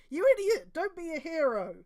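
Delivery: high loud scolding yell; angry shout. Acted. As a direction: yell at him to stop. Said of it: "But Goro didn't listen".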